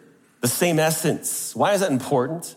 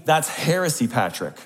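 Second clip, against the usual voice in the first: a light mock Irish accent, bold and confident; 2 semitones lower than usual. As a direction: declare it boldly in a hint of an Irish accent. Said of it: "pull out your best Irish accent and declare boldly and confidently".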